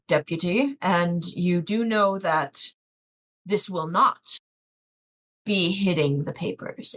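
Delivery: lightly voiced Obadiah, spelling it out deliberately. Obadiah warns the deputy off the story, slow and measured.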